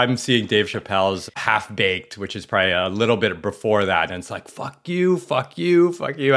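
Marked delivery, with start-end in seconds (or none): 4.5-6.3 high mocking fuck you, fuck you; sneering playful brush-off. Telling off pushy clients in a mocking high voice.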